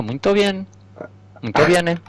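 high, sing-song fake Italian; jolly Italian pizza chef voice; Italian accent. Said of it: "o sotaque italiano". (sotaque italiano exagerado)

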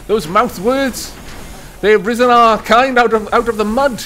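pompous alien voice. Acted. Mock lecture in odd voice.

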